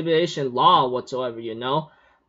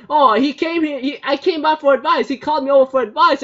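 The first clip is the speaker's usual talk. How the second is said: flustered; 7 semitones higher, 3 dB louder, faster than usual. Retold or imitated. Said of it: "Kajo's like".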